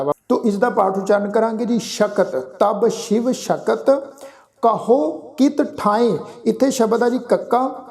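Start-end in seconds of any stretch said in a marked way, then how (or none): 2.4-6.2 slow, measured chanting of the verse; scripture recitation. Shown as a demonstration. Sikh teacher recites Gurbani for the congregation, slow and measured. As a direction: recite each phrase slowly and reverently.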